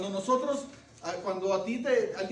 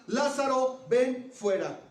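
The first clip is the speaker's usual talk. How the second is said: loud, higher call that falls off on ven fuera; shouted command; 5 semitones higher, 4 dB louder, slower than usual. Retold or imitated. Jesus shouting to Lazarus with all his strength, loud call. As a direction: cry the name out with full force. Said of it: "Jesús grita con todas sus fuerzas".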